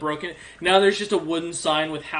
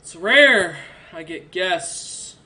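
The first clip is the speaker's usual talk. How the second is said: very slow, louder drawn-out words; slow imposing emperor; 2 semitones higher, 7 dB louder, much slower than usual. Acted. Orc emperor greets guests, slow and heavy. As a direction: let each word hang heavily. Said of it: "He nods and goes".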